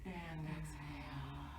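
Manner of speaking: soft, slow guided exhale; soft slow exhale cue. Shown as a demonstration. Instructor guiding a calm breath, soft and slow. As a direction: breathe out the word gently. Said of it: "Nice big breath in".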